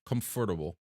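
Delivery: "comfortable" said in four beats, KUMF-er-tuh-bul; careful pronunciation. Shown as a demonstration. Streamer rebuilds the word for chat, careful pronunciation. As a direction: spell out "comfortable" with every syllable. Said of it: "It's definitely not comfortable".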